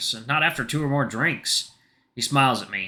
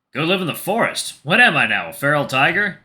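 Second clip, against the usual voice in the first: amused incredulity; 3 semitones higher, 5 dB louder than usual. Acted. Tiger questions his friend's forest advice, amused incredulity. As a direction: throw the advice back as a question.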